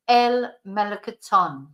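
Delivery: "melocotón" stressed on TÓN; stress on final syllable. Shown as a demonstration. Teacher recapping where the accent is, stressed TÓN. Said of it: "have to put the stress on the word".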